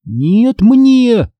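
put-on high, rising childish contradiction; stubborn squabbling retort; arguing. A narrator's reading. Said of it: "заспорила я".

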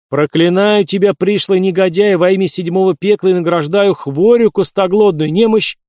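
loud, high incantation; solemn curse. A narrator's reading. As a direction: proclaim the curse like a sorcerer. Cultist casting a curse. (торжественное проклятие)

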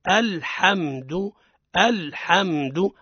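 "الحمد" twice, very slowly and clearly; slow model for students to repeat; model for repetition. Shown as a demonstration. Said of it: "مثلًا تقول لي".

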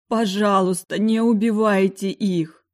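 desperate plea. Acted. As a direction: beg for their lives. Begging the killer.

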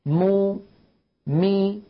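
مو then مي, each vowel drawn out clearly; Arabic vowel demonstration; vowel demo. Shown as a demonstration. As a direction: show each vowel cleanly. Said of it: "يخرج بالتباعد".

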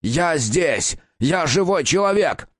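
straining while pulling free; high, desperate strained cries; struggling against restraints. Acted. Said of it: "попытался вырваться из плена фиксирующих ремней".

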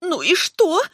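high, sharp mocking retort; defiant. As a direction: toss it back, unbothered. Terla defiant, throat held. (Терла дерзко огрызается Ревелу)

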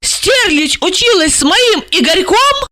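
high, shocked outcry; horrified exclamation. A narrator's reading. Jealous wife to her handler, high shocked outcry. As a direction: cry out clutching at the news. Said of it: "хватаясь за голову, воскликнула".

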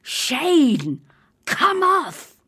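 hiss-free stage call, urgent; insistent teacher call. Acted. Teacher calling the boy off stage, urgent loud call. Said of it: "The voice from the wings was now more insistent".

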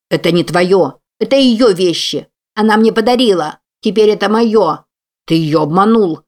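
loud angry yelling; shouting. Acted. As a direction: yell it in a fight. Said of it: "мальчишки кричат и дерутся".

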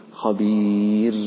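خبير slowly with a light ra; خبير, ra softened; thin ra. Shown as a demonstration. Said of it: "إياك أن تقول خبير".

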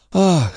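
high "ah" of relief; relieved sigh. Acted. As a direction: let out a high exclamation of relief. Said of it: "с облегчением выдохнул Андре". (высокий вздох облегчения)

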